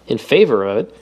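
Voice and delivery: surprised. Acted. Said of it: "said Obispo in surprise".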